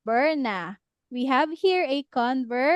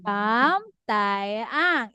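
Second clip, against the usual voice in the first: said slowly, syllable by syllable; slowly, to be copied; slow careful name; 3 semitones lower, slower than usual. Shown as a demonstration. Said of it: "Spell it out".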